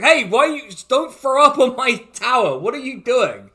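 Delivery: high, loud shout from a tower window; indignant yelling. Acted. Tower owner yells at someone vomiting.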